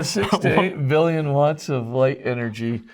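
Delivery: measured restatement, letting each word land. Real, not acted. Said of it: "Say that again a little slower".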